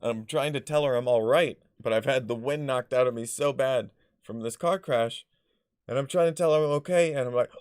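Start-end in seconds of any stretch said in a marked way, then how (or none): none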